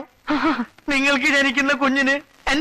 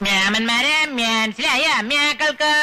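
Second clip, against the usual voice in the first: Namboothiri Brahmin dialect, rising end. Shown as a demonstration. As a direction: ask it in Namboothiri speech. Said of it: "നമ്പൂരി ഭാഷ ചോദിക്കണം".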